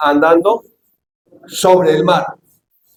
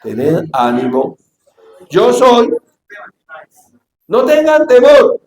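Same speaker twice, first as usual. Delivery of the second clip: reassuring; 2 semitones higher, slower than usual. Acted. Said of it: "les habló diciendo".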